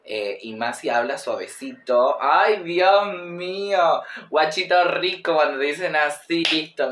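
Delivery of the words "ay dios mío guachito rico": swooning. Real, not acted. Swooning over Chilean accent.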